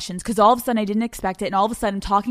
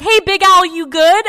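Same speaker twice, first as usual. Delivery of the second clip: therapist checking in; 9 semitones higher, 10 dB louder than usual. Retold or imitated. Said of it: "my therapist is like".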